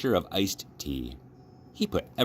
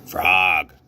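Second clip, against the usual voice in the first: Toad calls out, a little louder; mild call; 7 dB louder than usual. Acted. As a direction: call his friend's name across the water. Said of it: "cried Toad".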